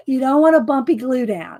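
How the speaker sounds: firm classroom teacher telling the class; lightly played schoolteacher warning; teacher's voice. Shown as a demonstration. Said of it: "can y'all hear my teacher's voice".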